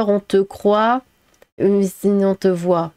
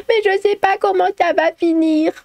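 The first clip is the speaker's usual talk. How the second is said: mock helpless storyteller; 11 semitones higher than usual. Streamer mocking long story videos, high whiny imitation. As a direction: imitate someone helplessly rambling, pitched way up and dragged out. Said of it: "En, en mode faire".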